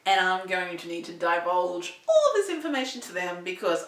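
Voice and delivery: fighting back tears mid-sentence; crying. Real, not acted. Vlogger to viewers, about to see the specialist, crying. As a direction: voice breaking into real tears. Upset telling of infertility setback.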